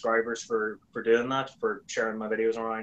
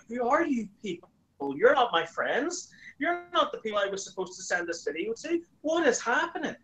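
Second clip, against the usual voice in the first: much higher, bewildered outburst; who on earth are these strangers; a high, baffled what is happening; baffled disbelief; 10 semitones higher than usual. Retold or imitated. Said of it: "And I went".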